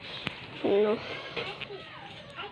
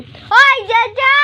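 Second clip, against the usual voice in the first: high, loud call to the pet; hey, get over here; 8 semitones higher, 5 dB louder, slower than usual. Real, not acted. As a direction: call him over sharply. Calling out to the pet.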